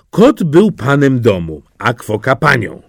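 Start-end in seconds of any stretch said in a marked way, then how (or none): none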